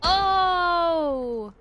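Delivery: high, loud, drawn-out excited cry; excited squeal. Real, not acted. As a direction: shriek with delight at seeing him. Excited recognition of Joel.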